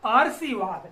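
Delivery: आरसीवाद said as written with र before स, आर-सी-वाद; wrong reading. Shown as a demonstration. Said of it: "इसका उच्चारण करेंगे तो ये होगा". (आरसीवाद गलत उच्चारण, आर-सी-वाद)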